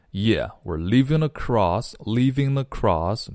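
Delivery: "leaving across" run together; linked speech. Shown as a demonstration. Teacher demonstrates linking, "leaving across" joined up. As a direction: glide from "leaving" straight into "across". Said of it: "连起来".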